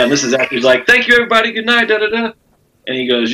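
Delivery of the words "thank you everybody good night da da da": higher, brighter mock host voice signing off; talk show host sign-off. Comic imitating the host closing his show, hammed-up host voice. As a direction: sell it like a late-night host saying goodnight.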